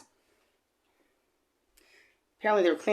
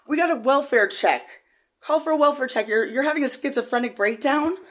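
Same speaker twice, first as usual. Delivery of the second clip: mimicked police officer; 9 semitones higher, 5 dB louder than usual. Police at car door.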